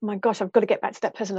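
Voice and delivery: rushed anxious inner voice; fast. Retold or imitated. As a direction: race through it, flustered. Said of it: "the stress around".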